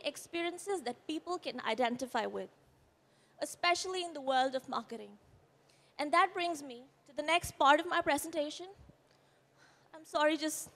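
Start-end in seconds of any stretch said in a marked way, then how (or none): 6.0-10.7 shaky, quivering voice. Real, not acted. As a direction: speak with a voice that quivers. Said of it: "bear with my quivering voice".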